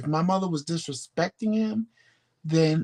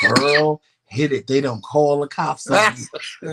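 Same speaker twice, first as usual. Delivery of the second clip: urgent call; 6 dB louder than usual. Retold or imitated. Jumping in car, urging mother.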